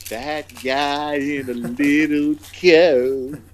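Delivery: a fed-up friend finally giving in; giving in, exasperated. Retold or imitated. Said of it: "he's just like".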